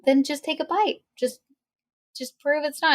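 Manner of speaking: nice sweet voice. Retold or imitated. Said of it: "She said it in a nice".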